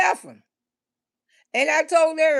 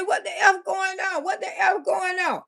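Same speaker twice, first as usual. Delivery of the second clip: shouting in outrage; 5 semitones higher than usual. Retold or imitated. Confronting cheating boyfriend.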